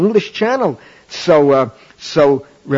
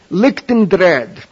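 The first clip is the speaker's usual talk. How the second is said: drawn-out, savoured delivery; deliberate punchline pause; slow punchline; much slower than usual. Acted. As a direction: let each word land slowly.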